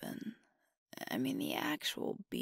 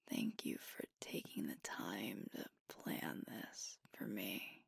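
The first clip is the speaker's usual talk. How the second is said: tender thanks. Acted. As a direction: thank a partner sincerely, almost whispering. Heartfelt thanks to partner.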